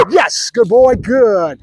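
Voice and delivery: high, drawn-out praise for a dog; excited praise. Real, not acted. Trainer praises Bruno for barking, excited. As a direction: reward the bark with gushing approval.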